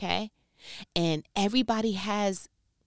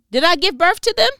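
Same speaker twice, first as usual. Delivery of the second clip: loud, high, exasperated cry; angry outcry; 11 semitones higher, 11 dB louder than usual. Acted. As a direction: shout it at God in frustration. Reading Moses' angry complaint.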